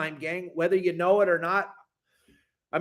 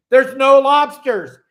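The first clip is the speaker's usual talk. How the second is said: mocking officials; 6 semitones higher, 11 dB louder, slower than usual. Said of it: "Then they're gonna say".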